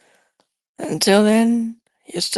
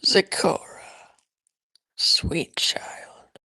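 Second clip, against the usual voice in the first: soft whisper; 4 semitones lower, 6 dB quieter, slower than usual. Acted. Teacher gently soothing her pupil.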